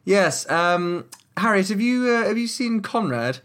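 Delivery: high, flirty halfling woman. Acted. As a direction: lift the pitch high for a cheeky halfling. GM voices Harriet the halfling.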